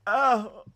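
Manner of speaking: a sharp, high, loud cry of pain. Pretend. Character struck by wood, loud high yelp.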